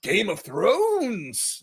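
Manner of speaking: hammed-up director, high on pale; mock casting boss, stretching Game of Thrones slowly; mock James Gunn. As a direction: joke impression of the director. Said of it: "I doubt James Gunn said".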